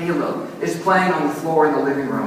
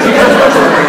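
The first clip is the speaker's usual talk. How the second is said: louder, laughing through the words; 13 dB louder, much faster than usual. Real, not acted. Pastor laughs at mixing up Jesus and Jacob. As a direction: laugh at the name slip. Laughing at his own slip.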